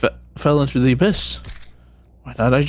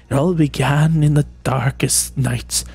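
mock story narration. Tells Whiny a magical story.

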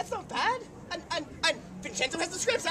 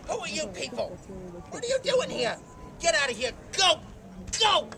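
gruff angry; 2 semitones higher than usual. Acted. Character chases off intruders.

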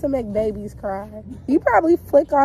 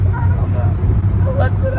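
voice cracking; 12 semitones higher, 6 dB louder than usual. Real, not acted. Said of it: "I feel like I have laryngitis".

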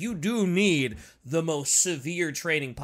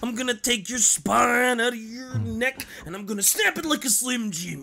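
wrestling promo; 3 semitones higher, 3 dB louder than usual. Acted. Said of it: "This has turned into a wrestling promo".

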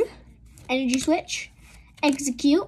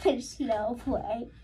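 soft, slow, with a laugh; quiet, drawn-out murmur of disbelief; hushed disbelief; 3 semitones lower, 9 dB quieter, slower than usual. Real, not acted. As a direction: barely get it out, stunned. First stunned reaction to rare pull.

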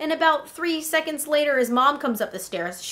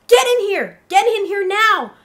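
put-on urgent, raised British-accented shout; 6 semitones higher, 7 dB louder than usual. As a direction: order them inside in a loud put-on British accent. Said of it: "he has a British accent".

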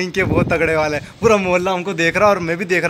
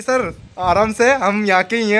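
higher, slow, mock-soothing plea to the police; imitating friend placating; 4 semitones higher, slower than usual. Friend Aman calming the armed police, slow mock placating voice. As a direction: gently talk the armed cops down, hammed up. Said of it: "यूँ कर लिया फौजी ने कि".

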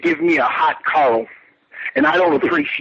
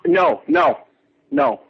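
indignant refusal; 4 semitones higher, slower than usual. Acted. Caller refuses giving his address.

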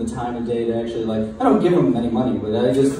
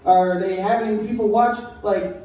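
high, worked-up mock outrage; pitched-up exasperated rant; incredulous rant; 6 semitones higher than usual. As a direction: rant in disbelief at the rule. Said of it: "I was like".

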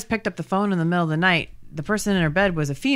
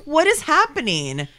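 baffled; 7 semitones higher than usual. Retold or imitated. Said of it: "I'm like".

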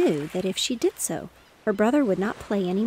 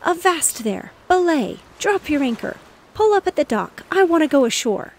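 high loud sailor's shouting; loud frantic shout, high pitched; crying out; 7 semitones higher, 7 dB louder than usual. Acted. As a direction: bellow sea orders at a horse. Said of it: "and he cried".

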